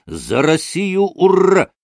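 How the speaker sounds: high toast with a shouted cheer; proclaimed toast. A narrator's reading. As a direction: proclaim it, building to a loud shout. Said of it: "провозгласил он снова". (провозглашает тост, громкое ура)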